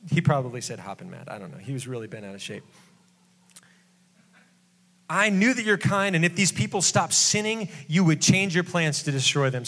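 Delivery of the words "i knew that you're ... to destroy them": high whiny Jonah. Acted. Jonah's complaint continues.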